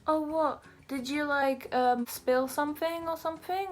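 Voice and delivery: imitated mum. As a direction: pitch it up for a mum's puzzled question. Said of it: "And she was like".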